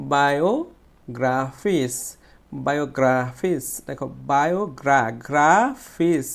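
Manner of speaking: বায়োগ্রাফিস slowly, with a strong long "gra"; stressed, stretched syllable. Shown as a demonstration. Teacher drilling students, long forceful "gra" in বায়োগ্রাফিস. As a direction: hold and push the "gra" in বায়োগ্রাফিস. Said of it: "গ্রাফটাকে আমাকে জোরে উচ্চারণ".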